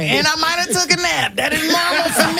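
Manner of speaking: laughing through the words. Real, not acted. Joking she took a nap, laughing. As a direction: repeats her line while cracking up.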